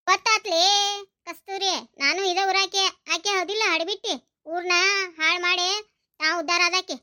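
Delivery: low-pitched, grudging scolding; acted low-voiced disapproval; bitter scolding. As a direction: run her down in short, low bursts. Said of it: "ಅಷ್ಟ್ ಬಯಾಕತ್ತೀರಲ್ಲ ಆಕಿನ್".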